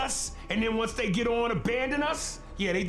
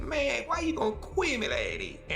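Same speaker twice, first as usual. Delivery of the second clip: mumbled rapper imitation; 2 semitones higher than usual. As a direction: slur "quiz me" together like the rapper did. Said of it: "But he said".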